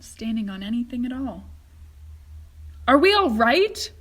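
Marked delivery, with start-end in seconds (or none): 2.9-3.9 loud, worried question; nervous old man in midair; fearful call; anxious cry. A narrator's reading. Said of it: "cried Grandpa Joe".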